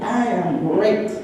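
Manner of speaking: slow, emphatic mock yell; imitated exuberant scream. Recovering patient phoning a friend, mildly imitated exuberant yell. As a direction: stretch each word, imitating a very strong voice. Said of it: "she was screaming in my ears".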